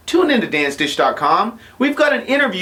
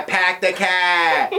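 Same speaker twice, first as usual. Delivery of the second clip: put-on Boston accent; much slower than usual. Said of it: "a Latino trying to do a Boston accent".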